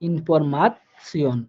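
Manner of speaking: ইনফরমাসিয়ন drawn out slowly with a তসিয়ন ending; slow careful pronunciation. Shown as a demonstration. Teacher modelling ইনফরমাসিয়ন slowly for students. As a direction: stretch ইনফরমাসিয়ন syllable by syllable. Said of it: "উচ্চারণ হয়ে গেছে তসিয়ন".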